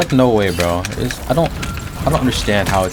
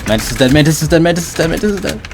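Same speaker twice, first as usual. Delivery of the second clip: loud, rising panic callout; urgent callout; 8 semitones higher, 4 dB louder than usual. Real, not acted. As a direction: shout it fast, alarmed. Teammate dying, urgent callout.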